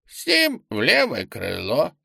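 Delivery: creaky clerk's voice. Acted. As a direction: creak out the words. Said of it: "проскрипел скрипучим голосом".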